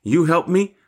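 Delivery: put-on high little-child voice, rising at the end; Stormy. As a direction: imitate a small granddaughter asking for help. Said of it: "when she says to Poppy".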